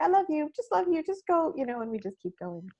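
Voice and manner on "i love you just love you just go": rushed autopilot love. Retold or imitated. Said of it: "we're like".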